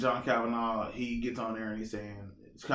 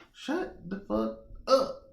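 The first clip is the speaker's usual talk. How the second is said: fed-up tell-off; 11 semitones higher, slower than usual. Acted. Telling trolls off.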